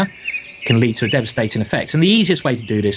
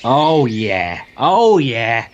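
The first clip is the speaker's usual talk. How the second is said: delighted; much slower than usual. Real, not acted. Savouring a brilliant chess move.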